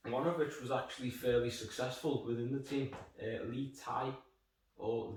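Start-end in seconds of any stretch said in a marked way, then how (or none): 3.5-4.1 "Li Tai" with the second word rhyming with "tie"; first guess at "Li Tai", ending in an eye sound; tentative pronunciation. Shown as a demonstration. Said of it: "know how his name's pronounced".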